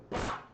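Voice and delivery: short, sudden "pá" for a drop; imitated sudden drop sound. Teacher mimics oxygen masks dropping, sudden imitated pop. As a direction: punctuate the fall with a quick "pá".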